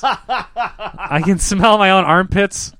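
slow, drawn-out words with laughter; laughing as you spell out the embarrassment; slow laughing repeat. Real, not acted. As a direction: repeat it slowly for the one who missed it. Repeats after "What?.

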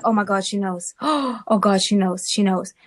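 hushed mock panic with a gasp; retold panic. Daughter fearing her mother has found out, retold panic. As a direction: replay a panicked realisation, softly. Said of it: "Panicking, right?".

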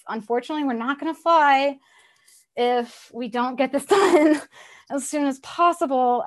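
a hint of a gentle disappointed mom; lightly voiced mom lecture. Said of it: "that's my disappointed mom".

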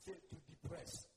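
soft, low cue to repeat; quiet prompt. Real, not acted. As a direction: prompt the congregation softly. First, quiet prompt to congregation.

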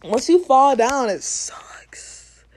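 breathy whisper; whispered aside. Real, not acted.

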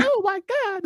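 very high, squeaky mock-horrified gasp; hammed-up shocked woman; imitating the lady. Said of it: "I loved your impression".

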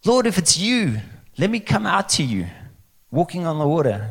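high-pitched, eager request; eager appeal. Acted. Peter asking Jesus to let him come, eager appeal. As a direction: call up hopefully, acting the bold disciple. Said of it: "Peter's like".

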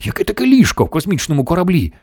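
high-pitched incredulous demand; barking. A narrator's reading. The President doubts a bed in a spaceship, barking. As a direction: question it indignantly. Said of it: "гаркнув президент".

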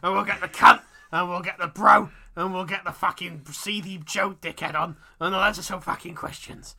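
loud, deliberate mock Cockney; Bradley Walsh. Host plugging the show mid-chase, loud hammy Cockney. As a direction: belt it out as a sweary Cockney host. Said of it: "the only Cockney voice I can do".

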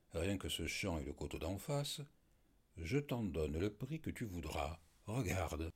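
calm, businesslike offer; calme d'homme d'affaires. Acted. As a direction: deal with him like a merchant, evenly. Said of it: "sur le ton d'un homme d'affaires". (ton posé d'homme d'affaires)

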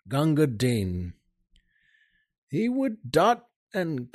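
dramatic ballad recital with soldier's swagger; poem recitation. Acted. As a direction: recite it like an old barrack-room ballad. Host recites Kipling poem.

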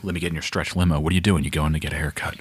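low, lightly voiced movie dialogue; lightly mocking film-character voice; imitating film characters. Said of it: "when everybody's just like".

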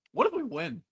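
high, rising hopeful outburst; giddy fan imagining a win; excited what-if. Retold or imitated. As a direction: squeal the dream of winning. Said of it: "you're like".

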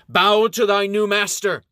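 high, loud imperious order; commanding shout. Acted. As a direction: bark it down at the servant. Princess commands the knight.

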